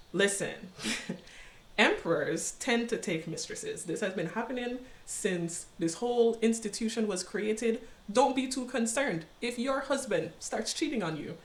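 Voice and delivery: softly voiced mother counselling her daughter; a hint of a reassuring mom, kept quiet; mother's advice.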